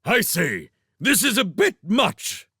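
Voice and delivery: a king calling out mid-chase; called out. Acted. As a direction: call out after them, affronted. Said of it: "the king called out".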